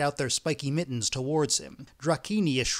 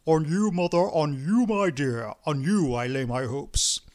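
mildly put-on imploring voice; rattled-off plea; 4 dB louder than usual. A narrator's reading. Priest at the lady's feet, imploring. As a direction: plead in a string of short appeals. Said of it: "rattled off".

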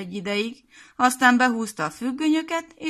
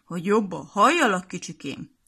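sweet-talking. Acted. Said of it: "nyájas hangon".

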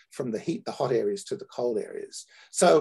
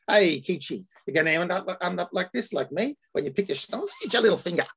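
lightly done Sydney dialect, a bit higher in pitch; Sydney accent; 5 semitones higher than usual. Shown as a demonstration. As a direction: read the quote in your hometown Sydney accent. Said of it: "translate it into my hometown dialect, into my Sydney dialect".

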